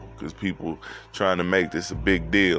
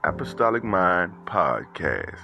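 hype podcast intro; 2 semitones higher than usual. Acted. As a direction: announce the show like a radio host.

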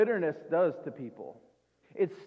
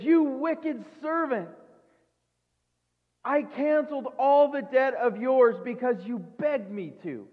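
stern king; 5 semitones higher than usual. Retold or imitated. The king rebuking his servant, stern and raised. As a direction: scold the wicked servant. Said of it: "He says".

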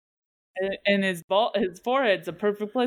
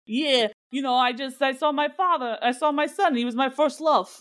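mock meathead dude; 5 semitones higher than usual. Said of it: "meathead dudes who are like".

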